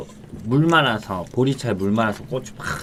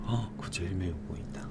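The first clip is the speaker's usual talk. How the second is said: hushed whispered warning; whispering; 3 semitones lower, 12 dB quieter than usual. Real, not acted. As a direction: whisper it so nobody hears. Whispered aside.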